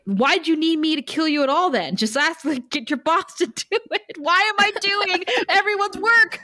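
whiny complaint that keeps rising; exasperated Buffy. Retold or imitated. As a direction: play Buffy fed up with doing everyone's job. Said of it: "Buffy could have jumped in ... been like".

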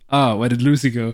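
badly faked light French accent; poor French accent. Film fan quoting the French guy looking for Lucy, poor French accent. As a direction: have a half-hearted go at a French accent. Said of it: "That's a poor French accent".

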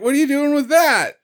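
mock-panicked high voice; high squeaky Duke. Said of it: "Duke is like".

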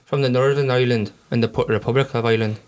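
low, badly faked Irish accent; mock Irish accent. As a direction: put on a dubious Irish lilt. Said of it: "I really apologise to anyone from Ireland".

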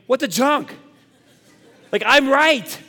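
retold road-rage outburst, high and punched; welling up with anger. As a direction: replay your outrage at a bad driver. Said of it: "I find myself welling up with anger".

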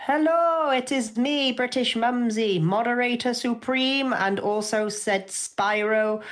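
high, drawn-out British mumsy greeting; hammed-up British mum introduction; put-on British voice. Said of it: "why I'm using this voice".

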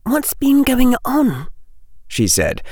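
put-on high, light girl's voice, worried; lightly voiced young girl, urgent; young girl Hermione. A narrator's reading. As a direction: play an anxious schoolgirl pressing for news.

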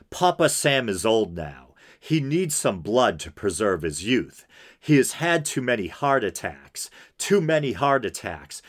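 deliberate, emphatic reading aloud; dramatic letter reading. Acted. Podcaster reading a killer's letter to listeners, dramatic reading. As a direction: read it out as a formal statement.

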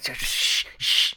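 loud, clumsy shush; drunken shushing. Acted. Lake told it's a secret, loud drunken shushing. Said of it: "tell drunk people to be quiet".

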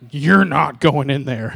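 slow, loud, stern refusal; strong-willed flesh. Retold or imitated. The flesh forbidding the spirit to go in, stern. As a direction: lay down the law, hammed up. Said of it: "my flesh was super strong".

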